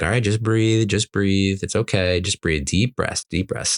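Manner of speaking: soothing. Retold or imitated. Calming a crying daughter.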